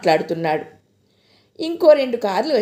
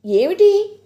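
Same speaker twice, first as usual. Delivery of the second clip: curious; 8 semitones higher, 5 dB louder, slower than usual. A narrator's reading. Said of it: "ఆసక్తిగా అడిగింది".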